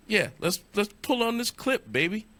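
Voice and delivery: high, excited hype; hyped up. Acted. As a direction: pump up the crowd. Hyping the clip.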